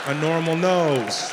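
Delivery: drawn out word by word; slow, pointed pronouncement; slow emphatic insistence. Retold or imitated. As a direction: stretch the words for comic emphasis. Doctor insists it is abnormal.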